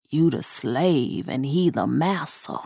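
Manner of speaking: low, soft doll voice, bitter; a doll muttering a grim truth. A narrator's reading. Doll talks back to Honeysuckle, low and bitter.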